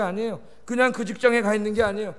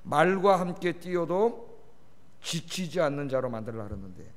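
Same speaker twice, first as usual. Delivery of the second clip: God rebuking; 2 semitones lower than usual. Retold or imitated. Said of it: "하나님 뭐라 그랬어요".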